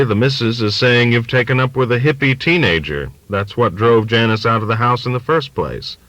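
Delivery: a lightly voiced old father sharing gossip; confiding old father. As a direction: lean in and pass on the family gossip.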